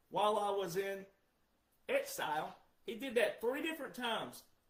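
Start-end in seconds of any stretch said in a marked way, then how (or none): none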